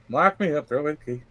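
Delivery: lightly acted Southern character; resigned words with a hint of Southern accent. Man asking to be locked up, Southern accent. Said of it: "he's Southern in that, uh, interpretation".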